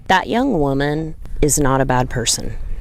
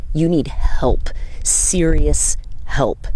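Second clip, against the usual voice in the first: whisper; slower than usual. Real, not acted.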